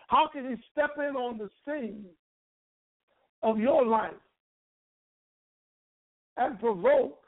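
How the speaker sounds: rising, fervent preacher cadence; preaching. Acted. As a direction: build the preaching up. Preaching building to full force.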